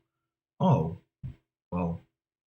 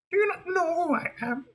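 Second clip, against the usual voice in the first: high, quieter piggy diva retake; haughty diva; 3 dB quieter than usual. Acted. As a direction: demand recognition, lofty and cool. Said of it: "we want to go a little like this".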